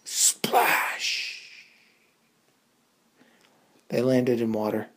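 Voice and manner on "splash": breathy splash effect; whispered splash. A narrator's reading. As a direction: hiss the splash. Landing sound effect.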